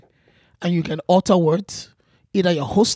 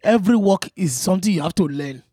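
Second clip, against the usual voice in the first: put-on advising in a Yoruba accent. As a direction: counsel like a Yoruba man. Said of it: "mine is a Yoruba man".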